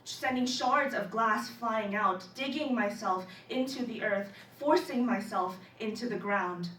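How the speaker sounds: measured poetry recital with dramatic pauses; spoken-word poem. Acted. Student presenting a poem on crash landing, spoken-word recital. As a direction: recite it in deliberate phrases, swelling as it builds.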